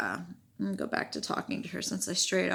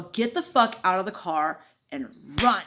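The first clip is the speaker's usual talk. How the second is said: retold urgent order; 4 dB louder than usual. Retold urgent order to flee car.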